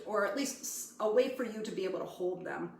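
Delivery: talking while licking fingers. Real, not acted. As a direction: mouth busy with sticky fingers. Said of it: "Sorry, I'm licking my fingers".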